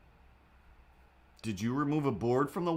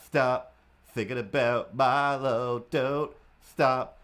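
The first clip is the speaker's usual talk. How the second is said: cat voice, mock diva; 3 dB louder, slower than usual. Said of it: "and be like".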